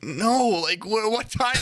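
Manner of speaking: high-pitched bewildered retelling; wildly confused. Retold or imitated. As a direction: act out being caught totally off guard. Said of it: "wildly confused at first".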